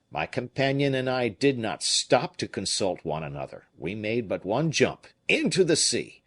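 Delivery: put-on a fisherman excusing himself in a Provençal accent. Fisherman answering Raoul in a Provençal accent. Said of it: "with his Provençal accent".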